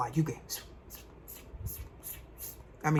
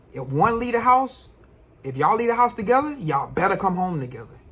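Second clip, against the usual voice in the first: high, loud mama warning; stern black mama; 5 semitones higher, 5 dB louder than usual. Retold or imitated. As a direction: lay down the law like a strict mom. Voicing black mamas' rule.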